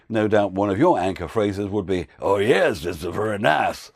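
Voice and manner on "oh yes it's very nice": light Monty Python French accent; comedy French accent. Shown as a demonstration. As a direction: toss it off in a hammy French accent. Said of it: "do a comedy French accent".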